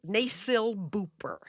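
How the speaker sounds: "nasal booper" whispered slowly as a reversed word; backwards speech. Shown as a demonstration. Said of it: "I'll just say it backwards".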